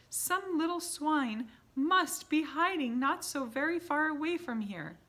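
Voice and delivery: very high, loud disgust; disgusted shrieking witches. A narrator's reading. Witches screeching about the stink, very high and loud. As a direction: screech with revulsion at the stench.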